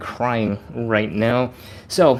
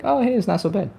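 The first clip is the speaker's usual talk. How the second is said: surprised relief; 10 semitones higher, faster than usual. Retold or imitated. Relief after stretch.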